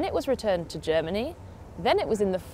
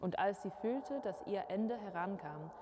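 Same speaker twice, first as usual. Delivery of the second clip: fairy tale reading; 7 dB quieter than usual. Acted. Presenter opening a Grimm tale for viewers, softly hushed storytelling. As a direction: read it like a dark old tale by candlelight.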